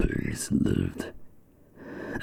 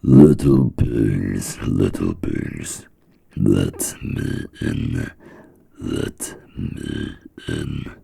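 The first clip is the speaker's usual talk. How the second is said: wolf voice; slower than usual. Acted. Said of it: "knocked on the door and said".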